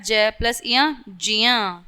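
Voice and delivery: ज्ञ said as जिया, not गै; ज्ञ pronounced जिया; correct ज्ञ demo. Shown as a demonstration. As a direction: blend ज and इया into जिया. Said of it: "क्या होता है".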